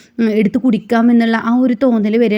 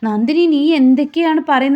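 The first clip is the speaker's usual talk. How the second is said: higher and louder, alarmed; alarmed outburst; 5 semitones higher, 5 dB louder than usual. A narrator's reading. Surya alarmed as Nandini confronts his father. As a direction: blurt it out in alarm. Husband shocked by drunk wife.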